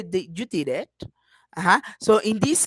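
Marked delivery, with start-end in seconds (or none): 0.0-0.9 "Did you did it" low and soft, rising at the end; question intonation. Shown as a demonstration. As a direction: lift "it" into a question. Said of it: "Sometimes they say".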